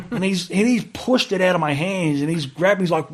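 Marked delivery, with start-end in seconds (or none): none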